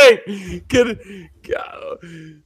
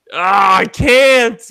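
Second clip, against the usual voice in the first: anguished cry; 3 semitones higher, 6 dB louder, slower than usual. Real, not acted. Longing for expensive Australia trip.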